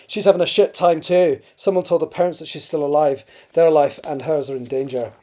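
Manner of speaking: put-on emphatic dialogue in an imperfect Scottish accent. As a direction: read Crothers in a rough-and-ready Scottish accent. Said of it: "Sorry about the terrible Scottish accent".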